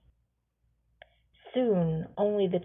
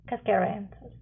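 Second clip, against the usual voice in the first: ordinary delivery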